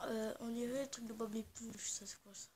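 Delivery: hushed whisper to the viewers; breathy aside whisper. Real, not acted. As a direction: whisper it like a secret. Whispering aside while exploring.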